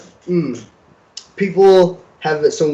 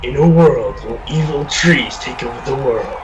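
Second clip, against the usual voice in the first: horror trailer voice. Pretend. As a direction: intone it like a dramatic trailer. Jokes about trailer with movie cliché.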